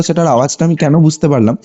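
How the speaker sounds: normal talking voice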